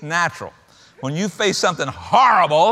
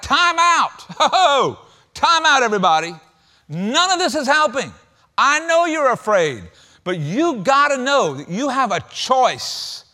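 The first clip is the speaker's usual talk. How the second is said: calling time out; 5 semitones higher than usual. Retold or imitated. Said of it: "He's just like".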